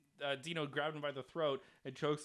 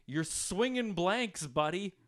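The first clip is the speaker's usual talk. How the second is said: heckler voice; 4 semitones higher, 3 dB louder, slower than usual. Retold or imitated. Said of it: "And he goes".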